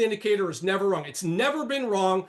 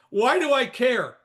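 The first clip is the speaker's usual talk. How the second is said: higher mocking quote; mock objection; 4 semitones higher, 4 dB louder than usual. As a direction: imitate a doubting listener. Voices a doubting listener.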